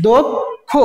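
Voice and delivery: দক্ষ broken into "dok, kho"; split syllables. Shown as a demonstration. Teacher asking what we are pronouncing, দক্ষ split "dok, kho". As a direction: pause between the two syllables of দক্ষ, rounded o. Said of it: "তাহলে কি উচ্চারণ করছি".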